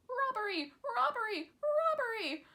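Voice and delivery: high, loud cry of robbery, three times; shouted alarm. A narrator's reading. Hidden son startling his mother, with a high loud shout. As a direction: yell it out to startle the woman. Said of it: "a voice shouted close to her ear".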